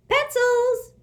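high, loud sudden call. A narrator's reading. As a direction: call out sharply to the room. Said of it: "the woman suddenly called out".

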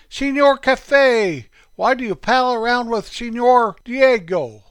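Mister Foster. A narrator's reading. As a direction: call the name out high and loud, dropping at the end. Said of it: "And he would call Forky".

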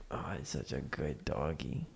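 soft cooing dog praise; squeaky praising a dog. Real, not acted. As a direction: coo gently at the dog.

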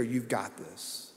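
hushed, slow reassurance; soft whisper. Retold or imitated. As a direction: quietly tell the kid they can do it. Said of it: "whispering in their ear".

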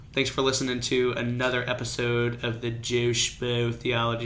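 lightly hammed-up show sign-off; a hint of a radio host reading the show name; podcast host voice. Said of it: "You don't have to say it like that".

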